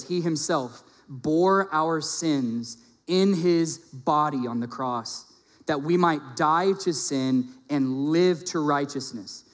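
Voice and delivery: slow, emphatic verse with drawn-out words; solemn scripture reading. Acted. Preacher reads First Peter to congregation, slow and emphatic. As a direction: recite it deliberately, stretching each key phrase.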